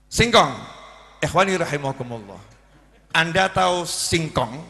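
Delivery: preacher's voice on cassava, half joking; mock sermon. Shown as a demonstration. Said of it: "Coba saya suruh ceramah". (ceramah pura-pura tentang singkong)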